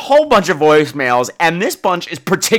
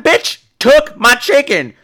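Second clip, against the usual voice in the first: silent fury; 8 semitones higher, 3 dB louder, slower than usual. Retold or imitated. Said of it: "but I'm just like".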